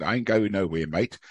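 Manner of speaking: light imitation of a broad Australian accent; a hint of a laid-back Australian accent. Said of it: "in his, uh, typical Australian accent".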